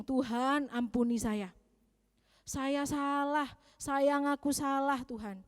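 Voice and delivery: retold prayer. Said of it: "Saya bilang".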